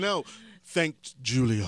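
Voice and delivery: slow, laughing tease; drawn-out teasing, laughing. Real, not acted.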